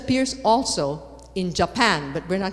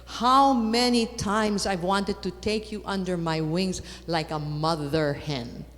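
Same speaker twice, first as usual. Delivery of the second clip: gentle quoting of Jesus. Retold or imitated. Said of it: "what does Jesus say?".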